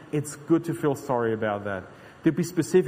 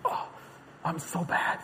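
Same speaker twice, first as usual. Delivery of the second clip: soft, mock-pitiful moaning; hushed mock lament; mock self-pity; 9 dB quieter than usual. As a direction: sigh it like a self-pitying sinner. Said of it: "like people say".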